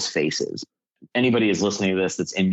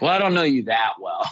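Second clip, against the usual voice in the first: retold blurt; 6 semitones higher than usual. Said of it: "And I'm like".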